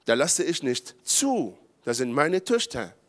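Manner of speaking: ordinary talk, nothing marked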